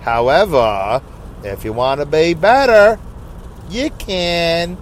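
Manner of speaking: slow Southern drawl of a Jewish lady; stretched, put-on Southern Jewish accent. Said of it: "That's a Southern Jewish woman".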